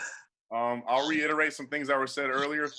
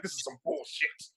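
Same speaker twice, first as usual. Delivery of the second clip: muttered grumble; 6 dB quieter than usual. Acted. White supremacist muttering on MLK Day.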